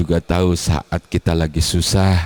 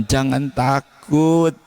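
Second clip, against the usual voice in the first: God speaking tenderly; 6 semitones higher than usual. Acted. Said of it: "Sebab Allah bilang".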